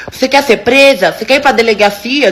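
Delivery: ameaça gritada, em versão contida; imitando gritos. Retold or imitated. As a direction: imite de leve alguém gritando em confronto. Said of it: "ficou gritando lá". (imitação branda de grito ameaçador)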